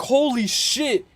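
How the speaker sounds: slow, stunned exclamation; drawn-out holy shit. Retold or imitated. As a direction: let it hang in shock. Retold shock.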